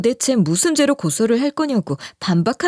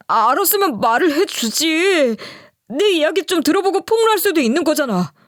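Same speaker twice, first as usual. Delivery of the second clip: brazen; 6 semitones higher than usual. Retold or imitated. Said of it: "남편이 뻔뻔하게 이러길래".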